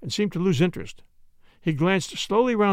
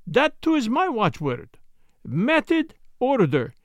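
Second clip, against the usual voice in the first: put-on Belgian detective, higher-pitched and accented; Poirot; 7 semitones higher, slower than usual. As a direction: voice a precise Belgian sleuth, lifted in pitch. Story figure, Belgian detective.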